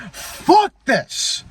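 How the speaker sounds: high-pitched angry outburst, reliving it; retold yelling. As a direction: spit it out like the moment it snapped. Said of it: "I'm yelling because I'm remembering".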